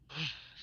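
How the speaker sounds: mid-sentence yawn. Real, not acted. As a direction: yawn before going on. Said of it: "sorry, yawning".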